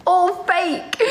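high, teasing call of fake; mock accusation. Teasing viewers that the chats are fake. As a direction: sing it up as a taunt.

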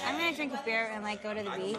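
British speaker trying an American accent; imitated West Coast American accent. Shown as a demonstration. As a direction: put on a relaxed American accent. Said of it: "That sounds like, I'll do it".

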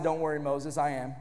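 low, soft voice of God answering; God calming Moses, low and soft. Retold or imitated. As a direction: reassure him quietly as God. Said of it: "God said".

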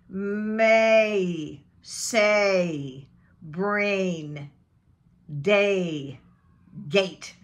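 stretched eh-to-E glide in the vowel; drawn-out diphthong. Shown as a demonstration. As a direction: model each word slowly with a long AY. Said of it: "So say, eh, E".

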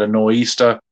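trying out a Boston accent on "nor'easter"; put-on Boston accent. Shown as a demonstration. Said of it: "Is that about right?".

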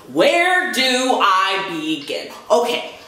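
slow, drawn-out exasperation; exasperated. Real, not acted. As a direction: stretch it out, at a loss where to start. Exasperated after reading the post.

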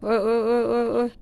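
loud repeated ouch, mouth burning; burned mouth on hot food. Real, not acted. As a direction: yelp at scalding-hot food. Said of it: "มันสิลวกปาก".

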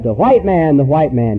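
mild shout fading to hushed; retold shout. Villager telling others the white man cried, retold shout dying away. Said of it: "he shouted".

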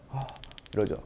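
normal talking voice

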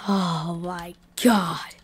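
slow awed whisper. Acted. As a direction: whisper in awe. Amazed by wish room.

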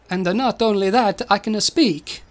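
lightly voiced Italian robot; a hint of stagey Italian; Italian accent. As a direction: put on a mild Italian accent. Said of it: "spoke back to him in an Italian accent".

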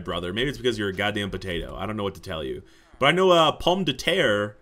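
usual speaking voice

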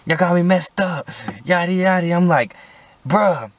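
high, heated plea to be let out; exasperated protest. Retold or imitated. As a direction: whine high and indignant at the cop. Pleading with cop from squad car.

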